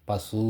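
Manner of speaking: பசு ending in a held, clear oo; fully sounded u. Shown as a demonstration. Teacher showing the u in பசு, held full ending. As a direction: hold on to the final vowel of பசு. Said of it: "ஊ என்பது உகரம்".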